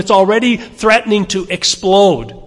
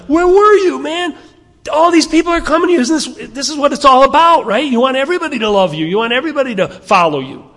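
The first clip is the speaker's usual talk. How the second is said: high, fast, pushy disciples' voice; nagging Jesus, much higher and louder; mock disciples; 9 semitones higher, 4 dB louder, faster than usual. A preacher voicing disciples scolding Jesus, high and pushy.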